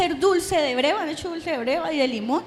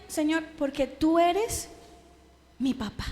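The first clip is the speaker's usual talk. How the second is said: slow, soft and lower; tender prayer; 3 semitones lower, 6 dB quieter than usual. Retold or imitated. A daughter tells God in prayer he is her father, tender. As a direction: whisper it like a confession.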